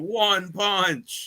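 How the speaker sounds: high-pitched drawn-out crowing; imitating gleeful taunt. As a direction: crow it high, mocking the loser. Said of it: "just laughing his butt off".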